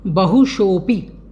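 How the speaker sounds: बहुशोपि said slowly, शो drawn out; careful pronunciation. Shown as a demonstration. Teacher showing students a tricky word, slow, joined बहुशोपि. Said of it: "उच्चारण में कठिनाई कहाँ कहाँ आ सकती है".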